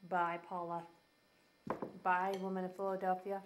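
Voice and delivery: talking through a mouthful of food; chewing while saying goodbye; mouth full. Real, not acted. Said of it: "I'm talking with my mouth full".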